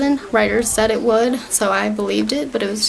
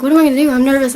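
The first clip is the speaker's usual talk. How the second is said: louder, mock-nervous retelling of a worrier; nervous fretting; 5 dB louder, much faster than usual. Farkle panicking to his friend before a date, mock nervous. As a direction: fret lightly, imitating a nervous boy.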